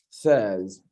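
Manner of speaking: says repeated as SEZ, with a short E; correct SAYS. Shown as a demonstration. Grammarian repeating the correction for club members, "says" said as SEZ. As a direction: say "says" to rhyme with fez. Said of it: "it's pronounced says".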